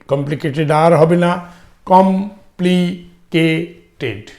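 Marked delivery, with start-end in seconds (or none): 1.9-4.3 slow syllable demo. Shown as a demonstration. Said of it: "চারটে, চারটে syllable".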